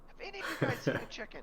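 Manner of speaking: high, fast, loud squawking voice; shrill screeching bird woman. Retold or imitated. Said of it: "Arrested Development, Chicken Dance".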